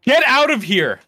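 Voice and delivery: shocked you can't believe it; sudden surprised outburst; disbelief. Real, not acted. Surprised at name Waba.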